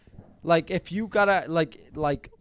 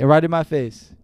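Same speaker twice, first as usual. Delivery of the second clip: heated; 6 dB louder than usual. Real, not acted. Angry rant about the flirter.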